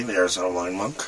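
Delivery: hoarse, quick lost voice; raspy whisper. Real, not acted. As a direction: rasp it out fast, voice gone. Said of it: "I have no voice".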